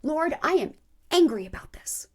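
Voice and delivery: a touch of anger, addressed to the Lord; angry prayer. Acted. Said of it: "tell God you're angry".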